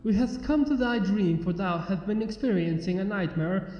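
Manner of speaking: a lightly voiced princess announcing herself formally; a touch of royal grandeur; regal proclamation. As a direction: proclaim your titles like royalty. Luna's formal introduction.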